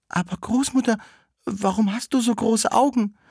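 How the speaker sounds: put-on high-pitched little-girl voice; Rotkäppchen questioning. Rotkäppchen to the disguised wolf in bed, high questioning voice. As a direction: ask in a high, put-on child voice.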